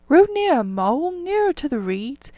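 high, loud eager call; urgent call. A narrator's reading. Rat urges mole to row nearer, high and loud.

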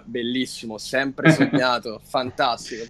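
sarcastic. Retold or imitated. Mocking Switch Steam hype.

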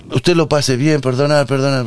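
put-on apologising politely in an Argentine accent. Policeman leaving with apologies, light Argentine accent. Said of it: "Eso ya es argentino".

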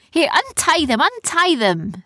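put-on high, urgent pirate-girl command; urgent order. A narrator's reading. Captor ordering her friends untied, urgent. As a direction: hurry them along with a repeated order.

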